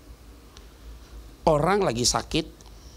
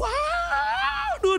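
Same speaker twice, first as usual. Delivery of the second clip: dog's excitement; much slower than usual. Retold or imitated. Dog excited at door.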